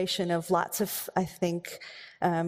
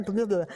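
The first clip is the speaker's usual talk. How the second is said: mock disgusted bleh. Disgust at eating orange slices.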